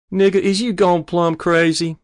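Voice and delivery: high, loud scolding disbelief; outraged. A narrator's reading. Mother shocked by son wanting a gun, outraged. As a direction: explode at him in disbelief.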